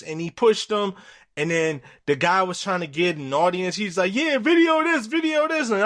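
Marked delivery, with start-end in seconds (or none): 4.1-5.7 rally the crowd to film it; riled-up call. Retold or imitated. Dad calls for crowd to film.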